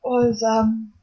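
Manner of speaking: resigned sigh. Acted. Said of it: "Amelia sighs and goes".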